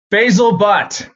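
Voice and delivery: loud, high name called out; roll call shout. Retold or imitated. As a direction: boom the name across the gym. His name read out.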